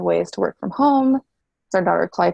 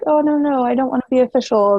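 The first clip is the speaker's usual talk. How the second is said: mock panic; 5 semitones higher, 4 dB louder, faster than usual. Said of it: "It was really scary 'cause I was like".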